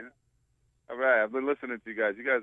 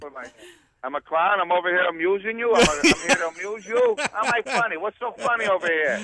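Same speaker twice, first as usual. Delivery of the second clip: rising, indignant New York wiseguy; mock Goodfellas tough guy; 4 semitones higher than usual. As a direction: act insulted like Joe Pesci. Mock-offended Goodfellas riff.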